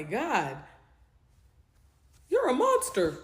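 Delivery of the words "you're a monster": high, loud shout; loud high accusation; accusing yell. Retold or imitated. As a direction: hurl the insult at him. Yelling at pimp.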